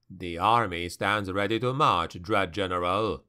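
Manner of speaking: usual speaking voice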